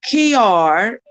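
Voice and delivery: learner trying a Jamaican patois line slowly; careful slow Jamaican patois try; Jamaican patois attempt. Learner attempts the phrase in Jamaican patois for Carrie. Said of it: "Now we gonna do it in patois".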